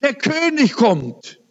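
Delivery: high-pitched, excited announcement; excited retelling. Retold or imitated. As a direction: imitate her thrilled cry, pitch well up. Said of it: "sagt sie ganz aufgeregt".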